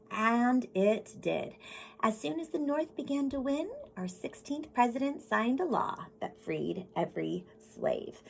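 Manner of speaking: put-on storybook reading voice for kids; gentle classroom story read; reading to children. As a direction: read it like a picture book to the class. Reads picture book aloud.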